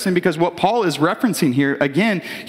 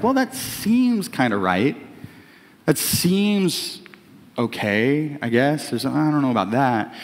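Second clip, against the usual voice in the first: hesitant doubt; 3 semitones lower, slower than usual. Acted. Acts out doubtful listener weighing it.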